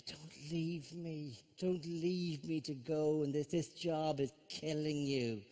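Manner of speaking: mock-tragic wife pleading slowly and softly. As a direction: drag out a wife's plea to stay. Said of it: "And she goes".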